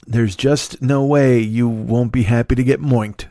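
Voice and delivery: slow, light mock corn pone; hint of corn pone ad drawl; corn pone accent. Mocking the Moink ad woman, light corn pone slogan. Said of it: "bad corn pone accent".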